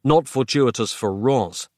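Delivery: slow, understated grim reply. Acted. Writer fearing for Roz, slow and mildly grim. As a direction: answer slowly with a touch of grimness. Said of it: "Nick said grimly".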